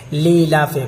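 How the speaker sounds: "لیلاف" run together as lee-laaf; "لیلاف" as lee-laaf, final vowel dropped; common mispronunciation. Shown as a demonstration. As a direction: say "لیلاف" with one long lee, no break after li. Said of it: "بہت سارے لوگ اس کو لیلاف پڑھتے ہیں".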